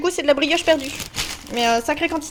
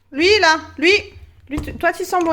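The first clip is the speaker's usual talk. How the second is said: excited cry; 4 semitones higher than usual. Real, not acted. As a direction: cry out happily at a nice smell. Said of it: "excusez-moi, je crie dans vos oreilles".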